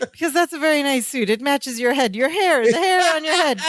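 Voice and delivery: mock nervous babble; flustered, self-correcting chatter; babbling. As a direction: imitate someone rambling into awkward flattery. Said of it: "you're b-, you're babbling".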